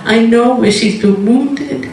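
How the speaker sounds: God gently explaining the woman's hurt; God's tender voice. Retold or imitated. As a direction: speak as a compassionate God. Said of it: "He said".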